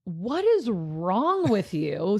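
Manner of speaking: slow, incredulous exasperation; mock-exasperated scolding. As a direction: draw it out in retold exasperation. Retelling exasperation at the kid.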